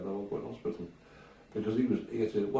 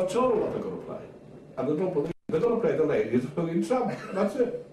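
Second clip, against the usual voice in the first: voicing the boss; 7 semitones higher than usual. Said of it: "he said".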